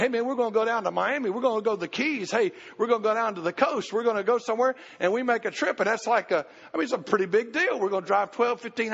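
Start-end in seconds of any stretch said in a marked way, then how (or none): 0.0-4.7 mock excited. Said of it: "we get excited about it".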